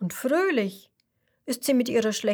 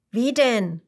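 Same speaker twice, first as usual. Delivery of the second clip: louder, wondering little question; puzzled; 4 dB louder than usual. Acted. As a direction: ask in honest surprise.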